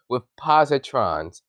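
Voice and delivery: firm corrective stress on "positrons"; "positrons" pronounced carefully, first syllable stressed. Real, not acted. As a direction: say "positrons" distinctly to fix a misreading. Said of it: "not positions".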